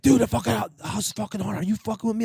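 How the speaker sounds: high, rattled accusation; imitating panicked buddy. Spooked buddy accusing prankster over haunted house, imitated panic.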